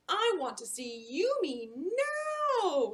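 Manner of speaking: slow, high, loud plea; grandma's slow loud yearning; urgent longing. Acted. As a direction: beg the moment to come. Voicing Grandma's urgent wish.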